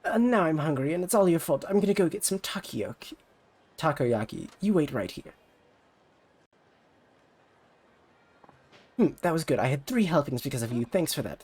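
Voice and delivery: put-on high, pushy rival-girl voice; bratty rival idol. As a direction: talk down to her like a snobby idol. Ulala blames her.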